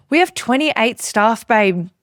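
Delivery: slow, pointed retold list of costs; indignant listing. Boss answering a cheeky staff member, indignant listing. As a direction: count each item off indignantly, with weight.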